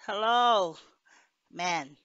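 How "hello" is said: louder hello into the phone. A narrator's reading. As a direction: call louder down the line.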